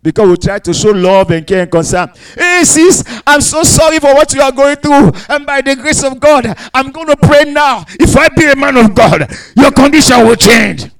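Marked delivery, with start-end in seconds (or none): 2.4-10.8 higher, gushing pastor sympathy; mock sympathetic pastor. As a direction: play the fussing pastor, a bit sugary. Pastor's sympathetic words, mimicked.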